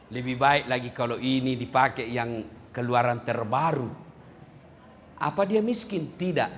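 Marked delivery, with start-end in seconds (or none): 0.1-3.9 mock complaining voice. Quoting greedy person's complaint.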